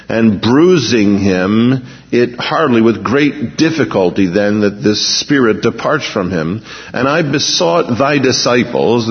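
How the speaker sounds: measured, solemn reading of the Gospel; scripture reading. Acted. Preacher reading the healing story to the congregation, solemn. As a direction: read the verses like a pulpit lesson.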